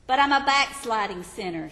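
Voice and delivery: a touch of the anxious sinner; pleading sinner. Acted. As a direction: object with worried force. Sinner's objection voiced.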